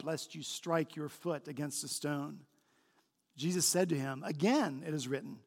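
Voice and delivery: measured public Bible reading; solemn narration with emphatic quoted speech; Scripture reading. A narrator's reading. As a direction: read the passage aloud with clear emphasis. Reads Scripture aloud to congregation.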